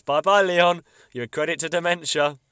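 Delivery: high, loud mock Lisa; sing-song farewell as Lisa; hammed-up little girl goodbye. Lisa quoted saying goodbye.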